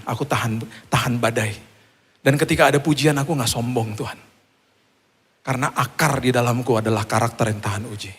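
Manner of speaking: low-key, earnest prayer; measured, softened prayer with pauses. Acted. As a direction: speak humbly and intimately to God. Models a prayer.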